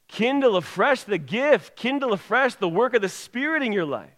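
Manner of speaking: high, urgent pulpit appeal; fervent exhortation. Real, not acted. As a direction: press the charge home to the congregation. Exhorts congregation at full force.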